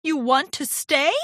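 pleasantly surprised; perking up. A narrator's reading. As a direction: ask with reviving hope. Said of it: "perking up".

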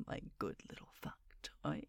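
fast breathy whisper in the ear; cupped hand whisper. Acted. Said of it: "I'll whisper it in your ear".

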